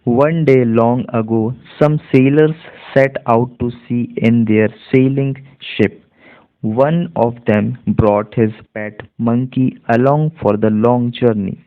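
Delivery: slow, evenly spaced model reading; measured classroom reading in Indian English; read-aloud demonstration. Shown as a demonstration. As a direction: read the passage slowly, word by word, for learners. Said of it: "पूरा एक साथ पढ़ करके बताऊंगा".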